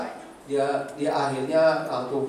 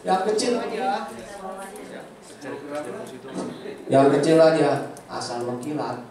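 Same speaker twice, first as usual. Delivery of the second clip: teasing wife voice; 2 semitones higher than usual. Retold or imitated. Istri merayu suami minta kado, mock wife voice. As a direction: play the wife coyly asking for jewelry.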